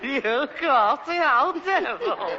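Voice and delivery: laughing. Acted. Laughing at the windfall.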